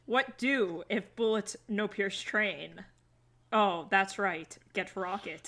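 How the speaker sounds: slow, broken caveman talk; dumb caveman voice. Retold or imitated. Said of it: "make the Americans sound either like dumb cavemen".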